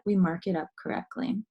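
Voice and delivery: whispered aside; hushed classroom aside. Real, not acted. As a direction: drop to a whisper on the reminder.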